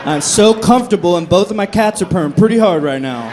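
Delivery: loud, mock-stubborn protest; defiant refusal. Acting out refusal to leave bed.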